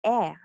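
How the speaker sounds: E said eh, as in egg; short E sound. Shown as a demonstration. Teacher introducing a vowel symbol, open eh. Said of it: "it represents the, um, sound".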